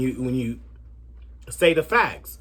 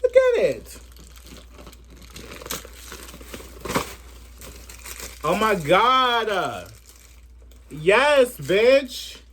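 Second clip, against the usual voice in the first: much higher, slow and gushing; over-the-top excitement; 8 semitones higher, much slower than usual. Acted. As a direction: squeal over the new bag like a fangirl. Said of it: "Okay, okay, let me stop".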